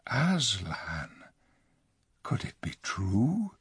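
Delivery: soft, frightened question; very low voice. Acted. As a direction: barely voice the fear. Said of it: "in a very low voice".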